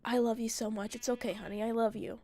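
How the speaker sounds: soft, soothing retold endearment; gently murmured, imitating a sleepy lover; tender imitation. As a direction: reassure a partner quietly, as if half-asleep. Retold sleepy declaration of love.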